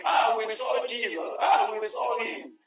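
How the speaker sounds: excited cry. Acted.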